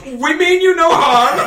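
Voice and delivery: magically amplified voice; booming voice. Acted. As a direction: boom it out, huge and echoing. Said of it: "in a booming voice that".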